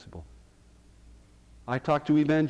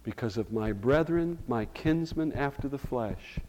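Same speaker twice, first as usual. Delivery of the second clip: Paul's mild lament. Retold or imitated. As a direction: let the grief of Paul show, understated. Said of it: "Do you hear him saying".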